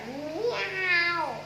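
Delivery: a high imitated meow; cat meow. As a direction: mew like the hidden cat. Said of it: "a sound appeared".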